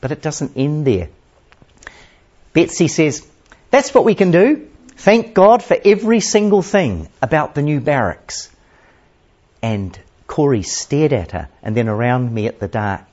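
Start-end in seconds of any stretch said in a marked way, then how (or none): 3.7-8.5 eager. A narrator's reading. Betsy urging thanks.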